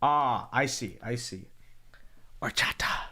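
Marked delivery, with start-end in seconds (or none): 2.4-3.1 horchata half-whispered without its H; silent H. Shown as a demonstration. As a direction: drop the H from horchata, Latin style. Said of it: "Don't pronounce the H really".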